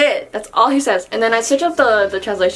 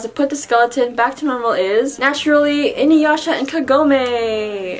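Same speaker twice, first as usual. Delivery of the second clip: playful loser announcement; 3 semitones higher than usual. Retold or imitated. Rin announces the contest loser.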